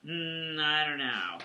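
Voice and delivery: low, soft, doubtful murmur; Jamie. Retold or imitated. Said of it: "So Jamie's like".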